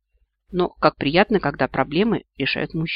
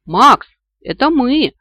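slow, high, loud shout through cupped hands; calling out; 8 semitones higher, 9 dB louder, slower than usual. Acted. Heroine shouting up to Max in the tree, loud call. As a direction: call up the tree to reach him. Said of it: "крикнула я ему, сложив ладони рупором".

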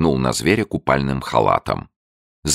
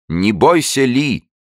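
higher, louder reassuring shout; 11 semitones higher, 5 dB louder, slower than usual. A narrator's reading. Abe shouts to frightened Li, louder. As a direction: call out to calm her. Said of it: "крикнул Эйп".

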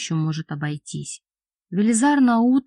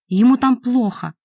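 pleading cry; 5 semitones higher, 6 dB louder than usual. A narrator's reading. Priest pleading urgently.

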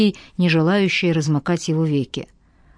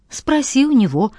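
snapped back; 7 semitones higher than usual. A narrator's reading. Marina snapping at Max's question, higher curt retort. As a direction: bite the words back at him. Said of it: "огрызнулась она".

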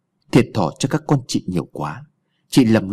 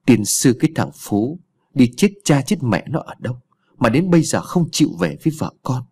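cursing; 2 semitones higher than usual. Acted. Old mother cursing son-in-law Phú for not coming home, mild angry grumble. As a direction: curse the missing husband with exasperation. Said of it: "miệng chửi với".

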